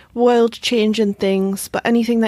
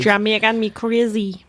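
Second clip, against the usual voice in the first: bad Jamaican accent in Geordie. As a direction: try a Jamaican accent and miss. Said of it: "the most Geordie Jamaican accent attempt ever".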